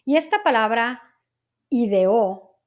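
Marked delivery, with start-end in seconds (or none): 1.7-2.6 "ideó" with a long, stressed final ó; "ideó", accent landing firmly on the ó. Shown as a demonstration. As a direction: lean on the last vowel of "ideó". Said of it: "Con acento en la O".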